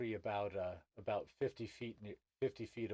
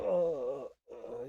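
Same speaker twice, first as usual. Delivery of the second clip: pained groan; 4 semitones higher, 7 dB louder than usual. Acted. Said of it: "he's hurt himself".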